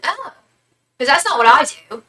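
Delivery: high, loud mock-British retort; rough British accent. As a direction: imitate a defensive British woman. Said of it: "She had a really rough accent".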